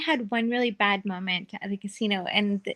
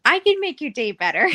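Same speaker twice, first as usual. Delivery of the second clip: overly nice; 3 semitones higher, 5 dB louder, faster than usual. Retold or imitated. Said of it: "but, like, overly nice".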